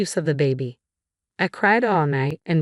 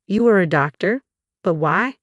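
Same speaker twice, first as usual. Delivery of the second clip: loud, higher, stunned question; shocked disbelief; 3 semitones higher, 3 dB louder than usual. Acted. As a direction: blurt it out in shock. Sister shocked to see doctor.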